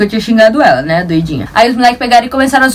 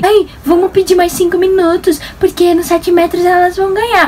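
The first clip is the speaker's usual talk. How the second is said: lightly mocking opponent; 8 semitones higher than usual. Opponent girl voiced.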